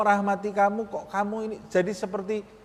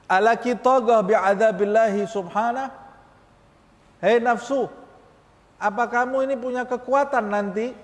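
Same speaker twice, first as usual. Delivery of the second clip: fiery warning to one's own soul; challenging the soul; 4 semitones higher than usual. Shown as a demonstration. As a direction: dare the soul to face punishment. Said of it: "Tanya kepada nafsu kita".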